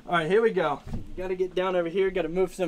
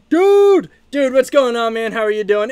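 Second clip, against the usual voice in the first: big high burst on the first dude, then easing down; excited dude greeting; 4 semitones higher, 8 dB louder than usual. Retold or imitated. Streamer reads out a viewer's chat greeting, hyped-up yell. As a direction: hype up the viewer's greeting like a buddy yelling hello. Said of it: "He says".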